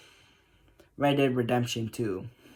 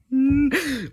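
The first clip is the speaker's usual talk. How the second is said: high, drawn-out growl of frustration; exasperated groan; 12 semitones higher, 4 dB louder than usual. Acted. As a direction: groan high through a closed mouth. Frustrated groan before threatening actor.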